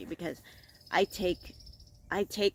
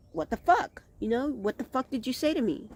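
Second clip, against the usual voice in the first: nasty attitude; 7 semitones higher than usual. Retold or imitated. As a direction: act out picking a fight. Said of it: "nasty attitude".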